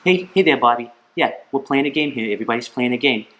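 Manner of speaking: put-on high-pitched coach calling to a daydreaming kid; T-ball coach. Coach calls kid picking his nose in the outfield, high calling voice. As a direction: call out to get his attention, voice up high. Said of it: "the coach says".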